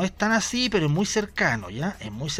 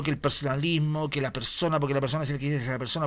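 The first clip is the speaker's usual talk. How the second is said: nervous babbling; 3 semitones lower, 5 dB quieter, faster than usual. Retold or imitated. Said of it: "respondió como con nerviosismo".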